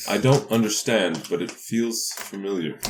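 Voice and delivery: slow wistful musing. Acted. Paladin senses home.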